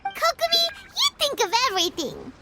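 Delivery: bright, quick rush of admiration; excited praise. Acted. Companion to Kokomi, excited admiring praise. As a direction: gush with delight at her cleverness.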